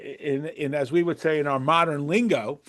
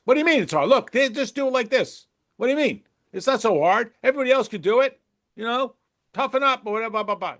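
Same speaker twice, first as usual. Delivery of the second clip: higher and rushed, dismissive; impatient reprimand; 5 semitones higher, faster than usual. Retold or imitated. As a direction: brush off the struggle quickly. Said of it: "You get impatience".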